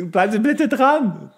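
sing-song it like a fake receptionist; silly phone voice. Podcaster imitates the secretary telling callers to hold.

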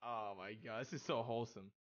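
low, soft, moved murmur; touched, near tears. Real, not acted. Streamer reading kind messages from chat, touched and near tears. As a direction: say it quietly, holding back happy tears. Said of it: "you're gonna make me tear up".

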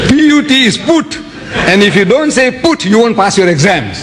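high, emphatic schoolmaster laying down the rule; a hint of an insistent teacher; stern teacher. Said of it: "He said".

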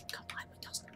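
hushed, voiceless beckoning; very soft coaxing; secretive whisper. Pretend. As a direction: whisper it to lure a friend over. Coaxing friend towards secret egg.

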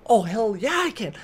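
retold combative snap; defiant retort. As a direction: fire back, retelling a heated quarrel. His retort in acted quarrel.

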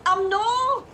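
high, loud defiant refusal; shouting back. Acted. Driver refusing to stop shouting at passenger, loud. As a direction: yell the refusal, stretched out. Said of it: "Stop shouting!".

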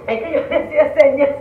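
laughing while wheezing; real laughter breaking through words; laughing through pain. Real, not acted. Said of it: "me ataca mucho la risa".

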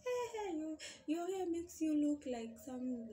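high, loud teasing jeer; mocking jokes. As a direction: mimic a friend poking fun. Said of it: "they'll start making some funny, funny jokes".

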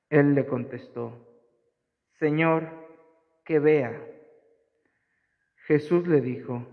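measured, phrase-by-phrase scripture narration; gospel reading. Acted. Priest reads Luke's story of the blind man, gospel reading. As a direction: proclaim it to a congregation, pausing between phrases.

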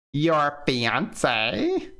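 slow, stunned "fiancée?"; drawn-out disbelief; disbelieving. Acted. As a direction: let the shock sink in. Shocked slow question.

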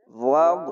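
ওয়াগ chanted with a thick, full "gh"; heavy ghayn. Shown as a demonstration. Teacher showing the ghayn, thick heavy sound. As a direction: make the closing "gh" of ওয়াগ heavy. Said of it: "গয়নটিকে মোটা করেই পড়বেন".

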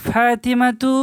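ফাতিমাতু ending on an open "tu"; ফাতিমাতু, "-tu" without nunation. Shown as a demonstration. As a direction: say ফাতিমাতু with no final n. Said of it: "দেখেন তু বললাম".

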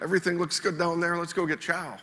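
a hint of a lazy pilot glancing down; careless pilots. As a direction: toss it off like you don't care. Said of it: "they would have been like".

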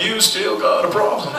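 lightly voiced folksy talk-show host; a hint of a lecturing TV counsellor; Doctor Phil. Talk-show host lectures a slot player, light impression. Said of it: "how about a Doctor Phil slot machine".

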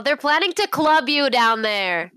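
mild mock yell, drawn out; half-hearted yelled warning; in-character yell. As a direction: slowly call a warning after someone. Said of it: "I'm just actually gonna yell".

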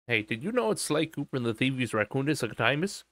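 ordinary talk

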